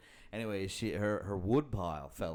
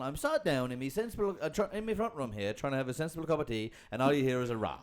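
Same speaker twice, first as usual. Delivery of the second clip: imitating the caller; 5 semitones higher, 3 dB louder than usual. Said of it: "It's the inflection that gets me".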